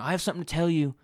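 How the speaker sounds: lightly voiced dopey girlfriend; mock the character with a slightly silly voice; stupid voice. Girlfriend putting off her news till tonight, in a mildly stupid voice. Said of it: "shouldn't give her a stupid voice like that".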